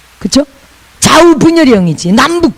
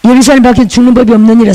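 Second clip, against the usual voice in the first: scripture reading; faster than usual. Acted. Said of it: "마지막 읽어봅시다".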